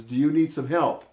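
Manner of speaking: calling down loudly from the hillside; yelled call. Retold or imitated. Calling down the hillside to a stranger by the creek, a loud yell. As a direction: raise the voice to carry down the slope. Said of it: "I yelled down to him".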